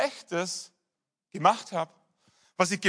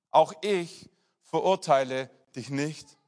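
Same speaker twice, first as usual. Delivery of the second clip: slow, gentle repeat; 3 semitones lower than usual. Acted. The pastor repeats Jesus' pardon to the congregation, slow and gentle. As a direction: let the pardon sink in gently.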